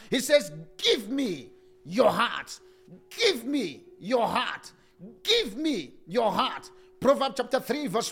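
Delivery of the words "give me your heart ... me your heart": slow pleading repetition. Acted. Repeated plea, slowed down.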